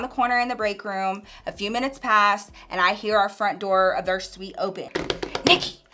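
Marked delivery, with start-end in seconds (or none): 5.5-5.8 calling out. Retold or imitated. Coworker calling across the office.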